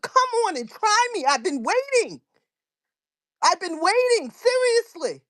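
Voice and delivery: high, heated taunt, pitch climbing; angry dare. Real, not acted. Host taunting critics to confront her, high and heated. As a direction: dare them to come at you.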